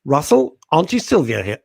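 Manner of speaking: imitating an aunt on the phone; a hint of an ominous aunt phoning; lightly voiced stern aunt. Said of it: "if her mum phoned me, Auntie Sylvia".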